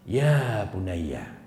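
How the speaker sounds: slow, tender "Ya bunayya", drawn out gently; tender call. Shown as a demonstration. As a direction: call the son lovingly, unhurried. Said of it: "Diawali dengan panggilan sayang".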